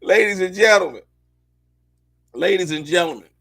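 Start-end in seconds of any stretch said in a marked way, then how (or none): 0.0-1.0 loud showman's call to the audience; announcer call. Acted. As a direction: announce it like a ringmaster. Calls out to audience.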